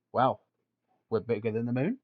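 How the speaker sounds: put-on a light Australian accent, smug and rising; mock Australian accent. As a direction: imitate a proud Australian bloke, lightly. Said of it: "In, in that exact accent".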